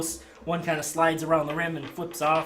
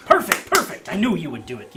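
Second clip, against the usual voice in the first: much higher, loud delight; delighted barker; 6 semitones higher, 9 dB louder than usual. Acted. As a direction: gush over the customer.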